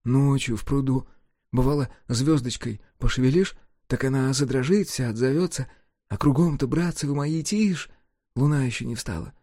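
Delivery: a hint of a sighing village voice; wistful sigh. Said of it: "признавался со вздохом".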